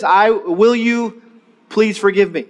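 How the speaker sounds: drawn-out words; slow model line. Shown as a demonstration. Pastor teaching the apology, slow. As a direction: say it slowly for them to follow. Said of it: "Now let's say this".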